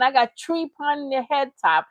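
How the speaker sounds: mocking Jamaican patois quote; lightly put-on Jamaican accent; imitated Jamaican accent. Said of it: "put on a new accent".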